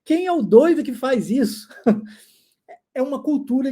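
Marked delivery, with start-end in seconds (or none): 0.0-1.7 mock disbelief. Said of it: "vai falar assim".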